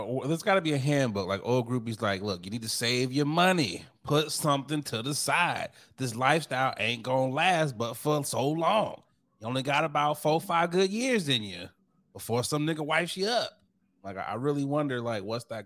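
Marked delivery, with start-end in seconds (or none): 2.2-13.5 lightly voiced seasoned mentor, pitch climbing higher; a hint of an old hand laying down advice; old groupie advising. Old groupie schooling the new ones, lightly acted advice.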